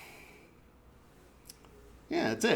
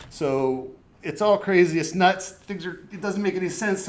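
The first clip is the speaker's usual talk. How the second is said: frantic; 3 semitones higher, 4 dB louder than usual. Acted. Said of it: "okay, so back to being calm".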